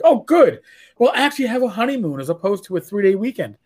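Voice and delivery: mock-delighted wife; retold delight. Acting out wife's pleased reaction.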